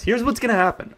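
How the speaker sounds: ordinary talk, nothing marked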